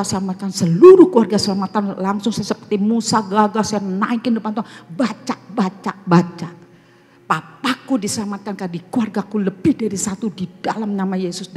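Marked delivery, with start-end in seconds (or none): none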